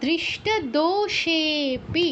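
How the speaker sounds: দৃষ্ট দোষেপি read slowly, syllable by syllable; teacher reading out the next example word. Shown as a demonstration. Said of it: "আরও এক মাত্রা বেড়ে সেপি হয়ে যাবে".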